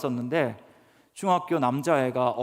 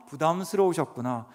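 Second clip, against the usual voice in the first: gentle empathy. Shown as a demonstration. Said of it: "감정 언어를 딱 그대로 반복해주면".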